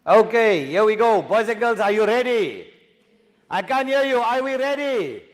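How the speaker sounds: loud, hyped call to the class. Real, not acted. Teacher hyping up the class.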